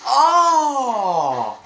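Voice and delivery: loud laughing yelp of surprise; startled laughing cry. Real, not acted. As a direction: burst out half laughing. Player reacts during stealth kill.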